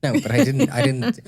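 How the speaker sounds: high, loud protest through laughter; laughing protest. Real, not acted. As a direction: deny it while cracking up. Protesting a filthy-mind joke through laughter.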